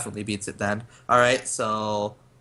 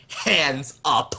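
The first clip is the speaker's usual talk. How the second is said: raised, higher call; acted command; 4 semitones higher, 4 dB louder than usual. Gunman pointing shotgun at a man, raised command. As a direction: order it like an armed standoff. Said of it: "and I just say".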